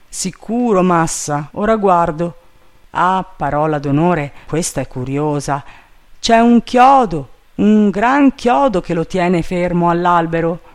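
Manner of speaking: puzzled, then high and loud; curious servant Jupiter. A narrator's reading. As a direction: exclaim at an odd find. Voices the servant inspecting the skull.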